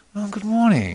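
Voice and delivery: very high, slippery salesman voice. Describing the voice of Mara from the Buddha story, slippery Mara voice. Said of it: "slightly slippery. It's got this sort of used car salesman, George Sanders type".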